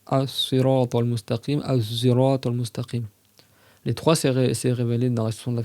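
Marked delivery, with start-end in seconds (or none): 0.0-1.6 slow "As-sirat" with a clear s; careful recitation. Shown as a demonstration. Teacher reciting one variant slowly for students. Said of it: "Tu peux dire". 1.6-3.0 "as-sirat" sounded as azirat with a z; zay variant. Shown as a demonstration. Teacher demonstrating the emphatic zay reading. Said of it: "Tu peux dire".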